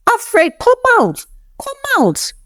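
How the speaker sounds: high piercing scream of a name; screaming his name. A narrator's reading. April screaming for Alfred outside the mansion gates. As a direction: shriek for him to come out. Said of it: "She just started screaming his name".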